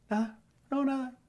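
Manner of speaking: hammed-up high "nada" of someone clearly upset; whiny mock denial. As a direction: mimic the sulker insisting "nada" in a high whine. Sulking partner denies being upset.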